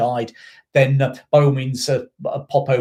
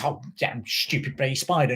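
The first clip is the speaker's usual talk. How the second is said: lightly imitated North London grumble; mock nan cursing in a North London accent; a touch of classic North London; 4 dB quieter than usual. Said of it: "it was just classic North London".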